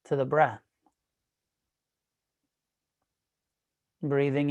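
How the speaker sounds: measured meditation guide, long pauses between phrases; guided meditation. Real, not acted. Teacher guiding an online class into breath awareness, guided meditation.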